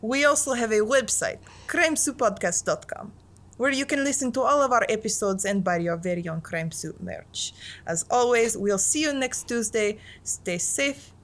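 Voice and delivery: put-on half-hearted Russian accent, slipping in and out. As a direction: keep the Russian accent going loosely, a bit unsure. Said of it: "I don't know how to say bon appetit in a Russian accent".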